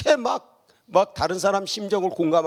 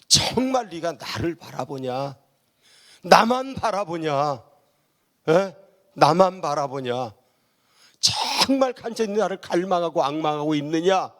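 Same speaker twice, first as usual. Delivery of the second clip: God's searching question. Acted. Voices God questioning the believer.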